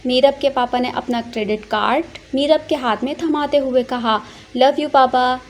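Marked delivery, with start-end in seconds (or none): 4.6-5.4 happy. Acted. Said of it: "खुशी से झूमती हुई".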